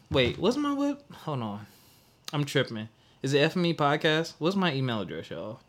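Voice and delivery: dazed and muddled, losing the thread; real lightheaded confusion, trailing off. Real, not acted. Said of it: "I'm lightheaded".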